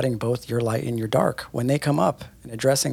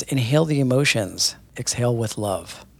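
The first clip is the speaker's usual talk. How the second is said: reading a quote. Shown as a demonstration. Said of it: "I'm gonna read a quote".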